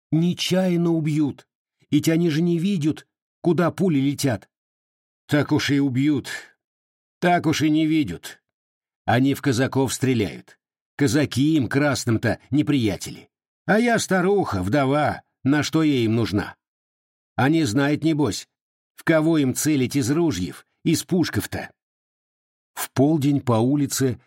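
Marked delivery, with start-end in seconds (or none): 0.1-4.5 lightly voiced young woman urging; Aksinya pleading. 5.3-21.7 a hint of a scoffing old woman; mild dismissive grumble of an old aunt; lightly voiced old aunt.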